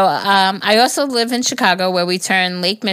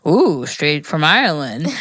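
flirty guy; 4 semitones lower, slower than usual. Retold or imitated. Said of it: "every guy thought it was way cool to hit on me, saying things like".

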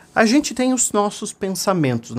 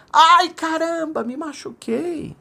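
high, drawn-out call fading away; distant echo; 13 semitones higher, slower than usual. A narrator's reading. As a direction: echo the boy's cry from far across the mountains. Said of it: "ele escutou lá de fundo assim".

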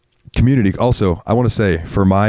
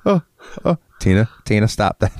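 mock Tina groan; 4 semitones higher, faster than usual. Imitating Tina Belcher moan.

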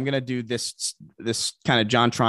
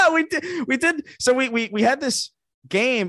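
high, laughing confession; laughing admission; 13 semitones higher than usual. Real, not acted. Admitting the bit, laughing.

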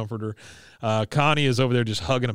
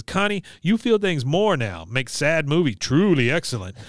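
mother's voice; 3 semitones higher than usual. Retold or imitated. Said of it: "She says".

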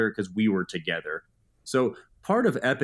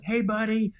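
put-on high, excited morning greeting to the kids; dad greeting his kids in the morning, excited; over the moon greeting; 9 semitones higher than usual. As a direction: greet them like you're thrilled to see them. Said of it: "I'm excited. My voice is raised".

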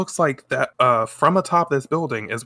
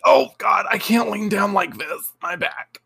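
higher, hammed-up groan of back pain; mock pained cry; 8 semitones higher than usual. Sailor V hurting her back while leaning for a kiss, mock pained cry. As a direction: play a thrown-out back, yelping. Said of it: "it's her fucking back".

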